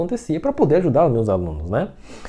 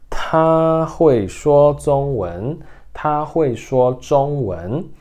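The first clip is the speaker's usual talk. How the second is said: slow, careful Mandarin demo; slow teacher modelling Mandarin; slow model sentence; 3 semitones higher, 3 dB louder, much slower than usual. Shown as a demonstration. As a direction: say it slowly for students to repeat. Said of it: "teacher models Mandarin sentence".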